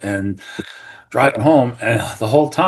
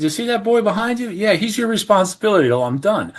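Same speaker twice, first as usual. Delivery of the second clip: high-pitched, insistent handoff; acted-out order to a bystander, high and pressing; retold urgent instruction; 10 semitones higher than usual. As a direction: hand over responsibility mid-emergency, voice pitched up. Handing son to employee during CPR.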